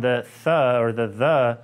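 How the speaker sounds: "th" sounded alone, then "the" voiced; isolated "th" and "the" sounds, drawn out. Shown as a demonstration. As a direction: show both TH sounds, "th" and "the". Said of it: "The T H sound".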